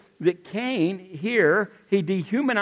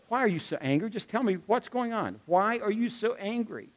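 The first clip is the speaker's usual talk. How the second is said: gentle therapist; 3 semitones higher than usual. Acted. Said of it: "like a good therapist would".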